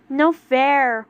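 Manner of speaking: pouting. Acted. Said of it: "Lion pouted".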